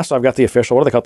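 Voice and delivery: ordinary talk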